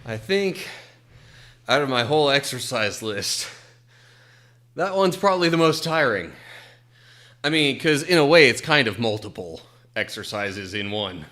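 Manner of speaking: breathless after burpees; out of breath. Real, not acted. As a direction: talk while catching your breath. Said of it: "so I can catch my breath".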